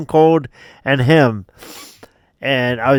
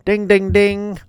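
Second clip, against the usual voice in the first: higher, level-pitched dings; imitated ring bell; 6 semitones higher than usual. Player mimicking the bell as the match starts, imitated dings.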